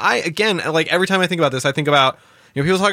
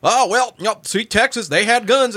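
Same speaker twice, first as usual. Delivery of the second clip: imitating a Texas caller, higher pitched; mock Texas accent; 6 semitones higher than usual. Host mocking Texas callers in a higher mock Texas accent. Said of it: "stop with the accent".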